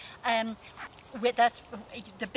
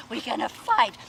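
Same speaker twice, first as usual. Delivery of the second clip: louder playful taunt; 7 dB louder than usual. Shown as a demonstration. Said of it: "have a game of bullies".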